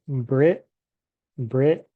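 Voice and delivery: "Brit" clipped off, with a pause after it; "Brit" cut short to show the gap; split syllable. Shown as a demonstration. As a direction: stop cleanly on "Brit" as if the word ends there. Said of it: "It's like I leave a, a space here".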